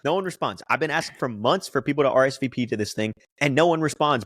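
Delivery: worked-up, exasperated rant; indignant comic protest. Real, not acted. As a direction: defend yourself, fed up. Host rebuts gripe aimed at him.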